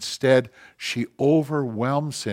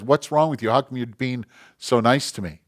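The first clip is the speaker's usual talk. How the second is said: acted worked-up husband, loud; exasperated challenge; 3 semitones higher, 7 dB louder than usual. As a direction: demand an answer from your wife. Retold husband challenges wife.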